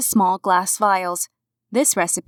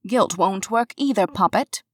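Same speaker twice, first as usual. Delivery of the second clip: light put-on British accent; playful British accent, teasing a friend; fake British accent. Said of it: "in a fake British accent".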